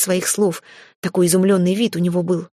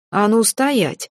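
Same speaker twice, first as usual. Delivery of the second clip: barked command; 3 semitones higher, much slower than usual. Acted. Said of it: "рявкнула я".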